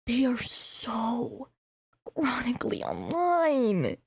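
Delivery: slow whisper on "chronically online"; whispered emphasis. Real, not acted. Mocking emphasis on TikTok users.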